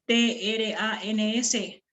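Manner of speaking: "T, R, A, N, S" letra por letra; deletreo. Shown as a demonstration. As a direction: deletrea "T, R, A, N, S" separando cada sonido. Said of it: "cinco sonidos". ("T, R, A, N, S" deletreado para contar sus sonidos)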